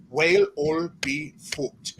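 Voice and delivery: four words run together into an Irish accent. Shown as a demonstration. Showing the trick's payoff to the host, Irish accent. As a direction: WHALE OIL BEEF HOOKED blended as an Irish-accented phrase. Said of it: "say that with an Irish accent".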